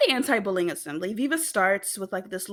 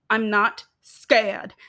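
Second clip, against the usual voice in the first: louder, slow, each word planted; defiant declaration; 7 dB louder, much slower than usual. Retold or imitated. Viva marching up to Charlie, slow loud defiance. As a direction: announce it to her face, slow and loud.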